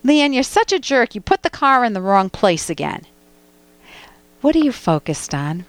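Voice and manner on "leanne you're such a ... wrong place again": mock scolding, high start then settling; aggressive you-language. Shown as a demonstration. Host role-playing an attack on the caller, mildly angry. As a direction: tell them off with blame. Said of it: "can you bear with one role play?".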